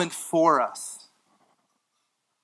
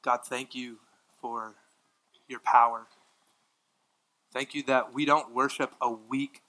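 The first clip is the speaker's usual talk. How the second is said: closing prayer. Real, not acted.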